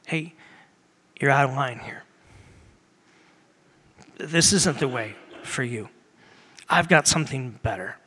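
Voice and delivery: low, gentle fatherly correction; loving correction. Acted. God correcting someone out of line, loving correction. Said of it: "he communicates through love".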